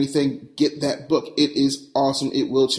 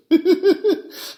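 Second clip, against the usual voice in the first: high-pitched giggle; a burst of high laughter; laughing. Real, not acted. Host laughs at own remark.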